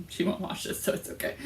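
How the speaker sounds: whispering with no voice; whispered aside. Real, not acted. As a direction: breathe it as a secret aside. Aside about friend not watching.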